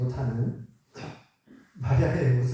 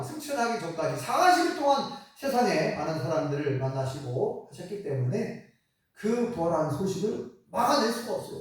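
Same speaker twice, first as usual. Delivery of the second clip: normal talking voice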